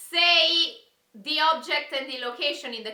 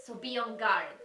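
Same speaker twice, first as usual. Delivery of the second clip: mysterious riddle reading; 2 semitones lower than usual. Acted. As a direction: read the riddles like a spooky secret. Reads rhyming riddles dramatically.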